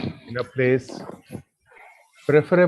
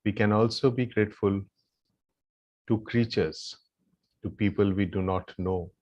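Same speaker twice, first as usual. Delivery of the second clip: low, soft meditative guidance with long pauses; guided gratitude meditation; 4 semitones lower, 4 dB quieter than usual. Real, not acted. Yoga teacher leading the group in silent gratitude, meditative guidance. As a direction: lead them gently into silent gratitude, leaving long pauses.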